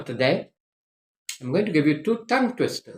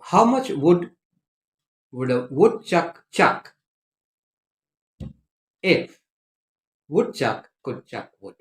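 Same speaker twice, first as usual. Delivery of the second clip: slow, deliberate recitation with long pauses; careful teacher's demonstration, every word separated; measured tongue-twister pace. Shown as a demonstration. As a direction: model it slowly, phrase by phrase. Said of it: "read it at the correct pace".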